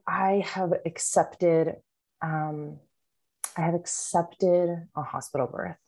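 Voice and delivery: slow, halting, imitated resignation; resigned acceptance. Pregnant woman admitting her birth plan to support-group leader, resigned. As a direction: retell it as reluctant, hesitant acceptance. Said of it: "why you said it like that".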